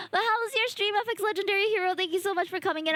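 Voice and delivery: high chirpy VTuber welcome; cute anime streamer. Real, not acted. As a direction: perk up into the streamer voice. Greeting the raider again.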